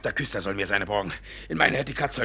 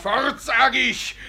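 angry order; 11 semitones higher, 6 dB louder, much slower than usual. Acted.

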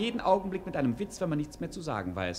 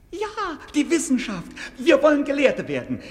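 higher and much louder, the first words stretched; excited outburst; 7 semitones higher, 7 dB louder than usual. Acted. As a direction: burst out triumphantly with the idea. Begeisterter Ausruf nach Flüstern. (begeisterter lauter Ausruf)

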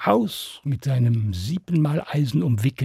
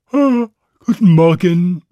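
louder, higher cheery greeting; cheeky Stan; 5 semitones higher, 8 dB louder than usual. Acted. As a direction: greet them with bold fake innocence.

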